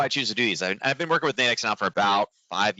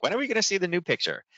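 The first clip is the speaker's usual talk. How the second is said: teasing student; 10 semitones higher than usual. Retold or imitated. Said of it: "students gave me a hard time".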